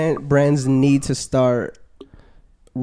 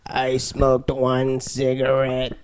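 mock ad voice; much slower than usual. Parodying anti-smoking ads.

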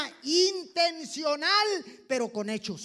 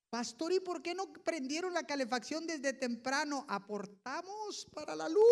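complaining congregant; 3 semitones higher, 4 dB quieter than usual. Retold or imitated. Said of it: "la inconformidad de la gente".

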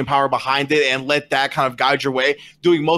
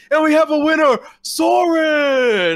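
higher, louder ringside announcement; announcer call; 11 semitones higher, 4 dB louder, slower than usual. Acted. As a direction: proclaim the champion to the crowd. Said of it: "And Opan goes".

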